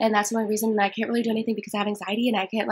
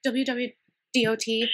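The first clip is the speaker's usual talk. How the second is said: slow spelling; 4 dB quieter, slower than usual. Acted. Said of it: "I'm freaking out".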